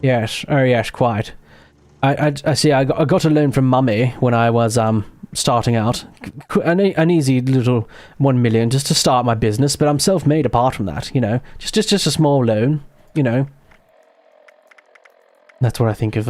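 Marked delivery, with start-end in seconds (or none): 0.0-1.3 stammering, hammed-up proper British toff; exaggerated upper-class English accent; posh English. Gamer demonstrating British toffery for viewers, posh English accent. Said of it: "love to hear my English accent". 2.0-13.5 put-on stammering, self-satisfied posh English rich boy; hammed-up upper-class English accent; British toff. Self-made heir excusing mummy's loan, posh English accent. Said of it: "British toffery".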